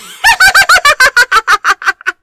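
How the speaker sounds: loud, high, wild laugh; high peal of laughter. Acted. Betrothed girl laughing amid the screaming nobles, a high wild laugh. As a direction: let a shrieking peal of laughter ring out. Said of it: "a high peal of laughter".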